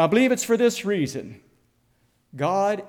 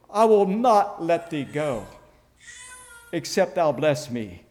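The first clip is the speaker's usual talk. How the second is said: a hint of a choked plea, slowed down. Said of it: "I believe that his voice was choked".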